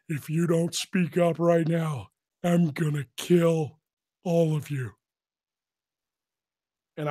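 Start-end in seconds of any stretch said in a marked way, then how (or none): 0.1-4.9 slow, measured mock threat; Technical Sergeant Ramscock. Imitating the T I threatening the whole bay, slow menace.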